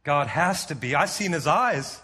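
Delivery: low, halting, mildly dejected; defeated confession. Retold or imitated. Preacher voices the disciple feeling he failed God, mildly defeated. Peter despairing after his failure.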